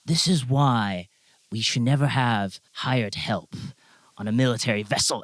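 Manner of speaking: a lightly voiced stern captain. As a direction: lecture them coldly, word by word. Captain disapproves.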